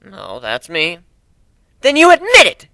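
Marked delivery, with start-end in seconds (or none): 1.8-2.7 higher, louder accusing growl. Acted. Nadine seizing on the captain's admission, growling. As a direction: pounce on his words. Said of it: "she growled".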